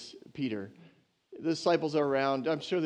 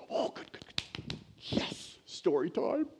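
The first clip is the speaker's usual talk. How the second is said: eager crowd; 7 dB quieter, slower than usual. Retold or imitated.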